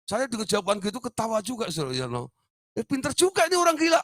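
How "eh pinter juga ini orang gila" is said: amused thought. Retold or imitated. The preacher marvels at the patient's answer, high amused thought. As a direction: laugh inwardly at the clever madman. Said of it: "dalam hati saya".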